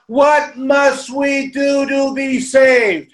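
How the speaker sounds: drawn-out crowd cry from the windows; imagined crowd yelling. Pretend. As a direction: call it out like a crowd begging. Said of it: "and they yell out".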